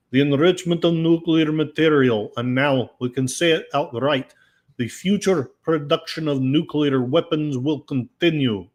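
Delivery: a light mock Russian accent. Host reads Medvedev's quote in a Russian accent. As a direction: read the quote like a lightly done Russian official. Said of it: "I must go into my Russian asset voice".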